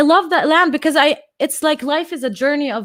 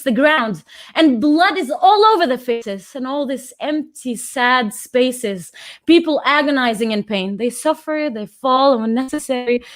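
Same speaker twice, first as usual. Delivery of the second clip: rhythmic, heightened poetry performance with pointed pauses; spoken word poem. Acted. Reciting her poem on Palestine to the conference, impassioned spoken word. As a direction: recite the poem like a rallying cry to the room.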